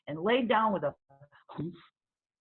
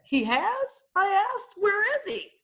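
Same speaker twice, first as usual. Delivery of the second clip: high, urgent questions; a girl hearing a bear has returned, alarmed; alarmed child; 13 semitones higher, 6 dB louder than usual. Acted. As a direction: ask fast, startled.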